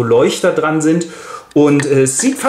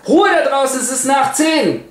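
higher, hammed-up bellow without much volume; a half-hearted mock roar out the window; mock yell; 10 semitones higher than usual. Lady yelling out the window at singers, mock yell. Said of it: "brüllt raus".

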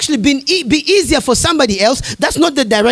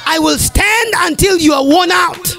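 defiant shout at the devil; 3 semitones higher than usual. Real, not acted. Defying the devil.

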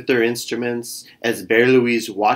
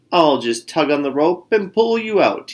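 bragging; 4 semitones higher than usual. Acted. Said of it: "he bragged".

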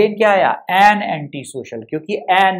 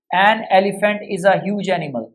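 slow dictation; much slower than usual. Shown as a demonstration. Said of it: "with examples for better understanding".

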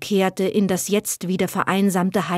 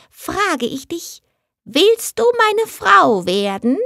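a higher, lightly voiced little goblin, coaxing and courtly; tiny heath spirit; 4 semitones higher than usual. Tiny heath spirit asks Heideröslein to marry him, lightly coaxing. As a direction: woo her like a sly little sprite.

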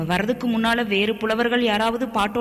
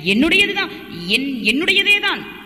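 flustered insistence; 6 semitones higher than usual. Acted. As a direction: blurt it out, caught off guard. (பதறிப்போய் உரக்கச் சொல்லுதல்)

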